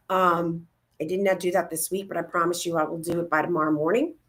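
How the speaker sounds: normal talking voice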